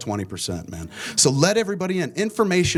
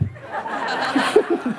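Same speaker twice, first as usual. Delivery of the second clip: laugh; 12 semitones higher than usual. Real, not acted. Laughs at Ben's joke.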